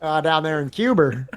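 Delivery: Cuba said Cuber, Boston style; a mild Boston JFK saying Cuber. Retold or imitated. Riffing on Kennedy's Cuba, in a mild Boston accent. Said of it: "him say fucking Cuba".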